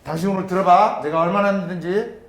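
loud. Shown as a demonstration. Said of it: "감정으로 다 쏟아부어봐요".

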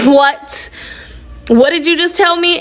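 incredulous, rising high in pitch; mock-stunned questioning; retold disbelief. Daughter to mother after a cruel remark, imitated disbelief.

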